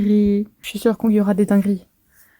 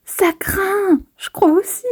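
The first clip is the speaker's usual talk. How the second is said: higher, urgent heroine voice; lively voiced manga dialogue; voicing characters in a fight; 10 semitones higher, slower than usual. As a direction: play the scared heroine fighting back. Reads character lines.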